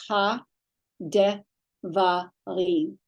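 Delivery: "Ha, de" as two syllables, then "va, rim"; shva separated. Shown as a demonstration. Teacher showing the separated reading, "Ha, de" split into two syllables. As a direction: keep "de" on its own beat after "Ha". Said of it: "it was separated into two syllables".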